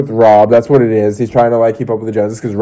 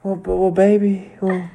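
hesitant, softer put-on mama voice; mock soothing mother; 6 semitones higher, 5 dB quieter than usual. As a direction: console haltingly as her mother, slightly higher and softer. Mimics mother's soothing reply.

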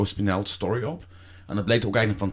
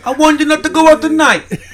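very high, loud mock Brooklyn Italian; Brooklyn Italian accent; 11 dB louder than usual. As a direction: shout it as a hammed-up Brooklyn Italian. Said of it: "zo door zo'n, eh, Brooklyn Italiaan". (schreeuwerig nagedaan Brooklyns-Italiaans accent)

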